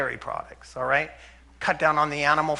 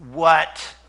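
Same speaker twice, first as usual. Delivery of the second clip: louder startled what; stunned what; 7 dB louder than usual. Retold or imitated. Husband hearing the ten-day claim, stunned louder. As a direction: react as if you can't believe it. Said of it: "And he went".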